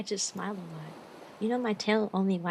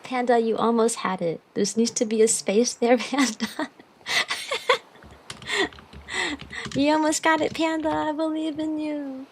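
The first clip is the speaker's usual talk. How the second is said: cheering call; 4 semitones higher, 8 dB louder than usual. Real, not acted. Cheering on a chat member.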